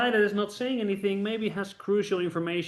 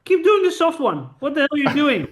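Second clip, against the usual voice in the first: hammed-up angry partner, rising higher and louder; mock tirade from an honest partner; mock scolding; 5 semitones higher, 4 dB louder than usual. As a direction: scold him like a fed-up teammate. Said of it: "I want you to say".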